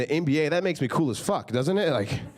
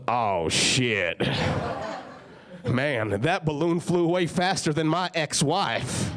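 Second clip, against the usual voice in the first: put-on drunk uncle Willie; much slower than usual. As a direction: slur it like a hammered hillbilly. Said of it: "And just goes".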